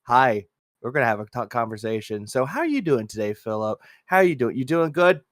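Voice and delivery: low, soft, understated small talk; imitated polite host. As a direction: play a subdued host making polite chat. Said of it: "and he's like".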